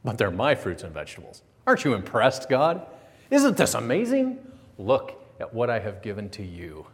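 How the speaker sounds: lightly voiced possessive Cain; mock proud farmer showing off his harvest. Cain voiced boasting to God.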